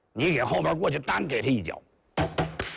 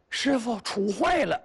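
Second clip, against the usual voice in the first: high, slow, whiny voice; distressed report; 8 semitones higher, slower than usual. Acted. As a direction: wail that it went wrong. 徒弟惊慌报告. (高声哭丧着说)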